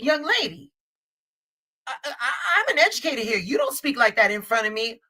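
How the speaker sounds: a hint of a stern teacher, rushed. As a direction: play the strict educator putting a student in her place. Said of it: "And I'm like".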